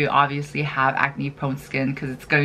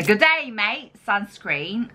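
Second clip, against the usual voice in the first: hammed-up Aussie accent; amateur mock Australian accent; 3 semitones higher, slower than usual. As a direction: attempt a cheery-greeting Australian accent, badly. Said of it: "had to do that Australian accent".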